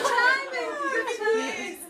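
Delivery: high, loud, laughing through tears; choking up while laughing; laugh-crying. Real, not acted. Speaker reacting to the room, laughing and crying.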